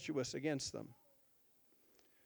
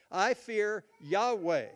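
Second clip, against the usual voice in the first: slow, with "Yahweh" leaned on as the key word; stress on Yahweh; slower than usual. Shown as a demonstration. Preacher showing Jonah's word for God, stressing "Yahweh". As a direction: lean on "Yahweh" in "I fear Yahweh". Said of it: "He uses the word in the Hebrew".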